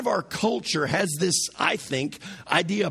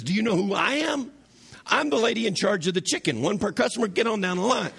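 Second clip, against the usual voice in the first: sassy chicken lady; 4 semitones higher, faster than usual. Retold or imitated. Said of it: "And the woman says".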